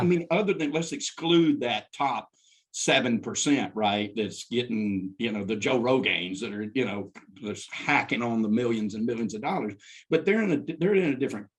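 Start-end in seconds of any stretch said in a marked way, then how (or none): none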